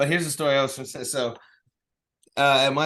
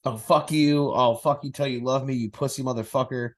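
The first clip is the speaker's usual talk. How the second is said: Mike Tyson impression. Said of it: "that's Mike Tyson".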